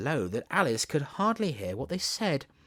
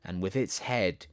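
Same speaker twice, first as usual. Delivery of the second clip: poem recital; slower than usual. Acted. Continues the poem.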